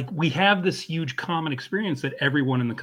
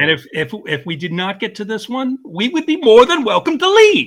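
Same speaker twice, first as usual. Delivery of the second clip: building to a high, loud shout; mock outrage; 7 semitones higher, 9 dB louder than usual. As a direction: start firm, then erupt in joking indignation. Mock outrage at skipping favourite sketch.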